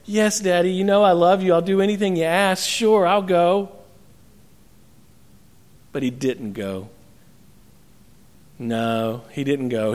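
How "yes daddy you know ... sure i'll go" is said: smiling, sugary agreeable son; sweet yes. Acted. Second son sweetly promising his father he will go, smiling. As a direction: sweet-talk your dad. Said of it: "this son smiles so sweetly and says".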